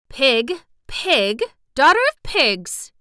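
loud, high, furious name-calling; angry child insult. Acted. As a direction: spit out the insult in a childish rage. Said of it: "growing more and more angry and muttering".

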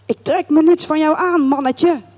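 lightly acted scolding; mock scolding. Drunken lodger defying the landlord, mildly scolding. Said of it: "begint te schelden".

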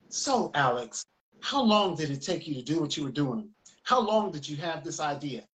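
measured talk-show host, slightly low; announcer's voice. Retold or imitated. Mom interviews Alex Haley on her show, light announcer voice. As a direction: lightly imitate a mother's interviewing voice. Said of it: "like, this announcer's voice".

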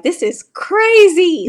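loud, high, drawn-out disbelief; retold amazement. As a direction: relive being blown away, voice soaring. Reliving realization of Super Bowl trip.

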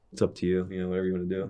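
soft, mildly deflated imitation; a little sad. Dad lets son quit football, a little sad. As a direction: say it softly, resigned, as a retold quote. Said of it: "like, sad a little bit".

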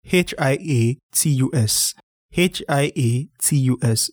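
letter by letter; spelled out slowly. Shown as a demonstration. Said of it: "This word".

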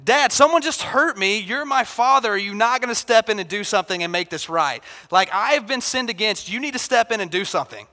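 lightly voiced boy insisting Dad step in; indignant kid. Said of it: "he's like".

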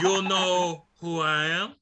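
put-on high, slow, laughing Cuban-accented tough guy; Razor Ramon Cuban accent. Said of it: "he got his accent and lost it".

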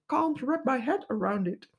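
plummy upper-class English accent; posh English accent. Shown as a demonstration. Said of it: "in, eh, posh English".

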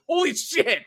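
high excited exclaim; amazed. Retold or imitated. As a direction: blurt it out in shock. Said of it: "I was like".

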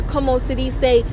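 drops into Spanish mid-thought; quick Spanish aside while searching words; switching languages midsentence. Real, not acted. Spanish filler inside English sentence.

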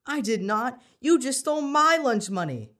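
loud, high indignant denial; yelling back. A narrator's reading. Accused boy yelling back at the bully, loud and high. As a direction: throw the accusation right back. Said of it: "Danny yelled back".

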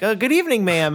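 lightly mimicked polite caller; telemarketer greeting. Telemarketer greeting a man taken for a woman, lightly imitated. Retold telemarketer mistaking speaker's voice.

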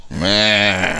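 drawn-out noncommittal "meh"; glum "meh". Retold or imitated. Player imitating the depressed farmer on the porch, glum meh. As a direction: let out a long, mock-depressed "meh".

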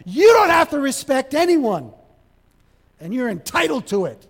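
mock a spoiled kid demanding respect; entitled child.

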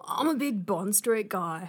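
playful Aussie read; Aussie accent. Acted. Answering a dating chat about streets, Aussie accent. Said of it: "I reckon we should do this in Aussie".

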